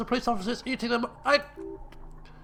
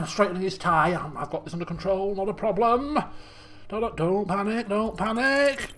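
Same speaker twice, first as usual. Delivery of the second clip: calm yourself under your breath; a hint of panicked self-talk; muttering to himself. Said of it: "as though to himself".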